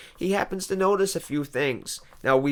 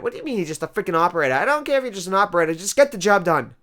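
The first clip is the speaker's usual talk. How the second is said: exasperated rant; 4 semitones higher, 3 dB louder, faster than usual. Retold or imitated. Ranting at the phone operator.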